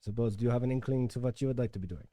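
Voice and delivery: put-on German accent. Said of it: "talk in a German accent".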